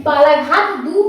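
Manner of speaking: "दु" slowed and set apart; stress on दु. Shown as a demonstration. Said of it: "जो दु अक्षर पे पड़ गया".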